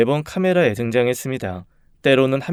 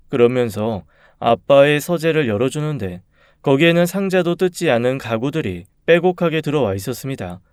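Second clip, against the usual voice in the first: usual speaking voice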